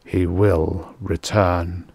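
slow, subdued, measured refrain; ritual intoning. A narrator's reading. Other races giving the same ritual response, intoning. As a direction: intone each word with space around it. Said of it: "is always the same".

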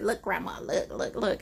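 soft, whispery coaxing of grandma; playful hushed whisper to grandma. Retold or imitated. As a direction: coax her in a near whisper. Coaxing grandma while tickling her.

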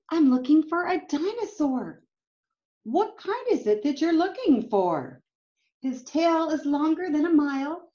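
put-on lively storybook read-aloud for kids; reading to children. A narrator's reading. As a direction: read it like a picture book to a class. Reading picture book aloud.

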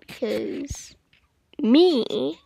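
voiceless, hushed whisper. Real, not acted. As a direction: drop to a breathy whisper. Whispered after scream.

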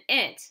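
"it" with a short vowel, set against eight; short "it" as a sample word ending; schwa ending. Shown as a demonstration. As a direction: offer "it" as the second option to try. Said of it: "see which one makes a real word".

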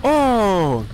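a sudden squeaky startled yelp like an otter; real surprised squeal. Real, not acted. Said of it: "I sounded like a, what's it, an, an otter".

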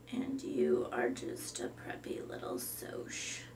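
deadpan whispered goth; a goth girl whispering dryly. Acted. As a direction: breathe it out, flat and gloomy. Goth Summer insults Brittany.

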